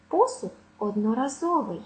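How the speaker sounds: одноразовий stressed однораЗОвий after посуд; penultimate stress. Shown as a demonstration. Teacher giving a phrase as example, penultimate stress. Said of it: "наголос на передостанньому складі".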